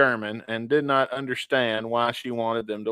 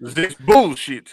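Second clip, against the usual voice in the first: mock German accent; 6 dB louder, much slower than usual. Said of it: "That was a terrible German accent".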